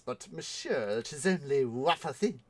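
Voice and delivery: lightly imitated French accent; mild mock French persuasion; French maître d'. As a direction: coax like a French waiter. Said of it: "the Maître D' says".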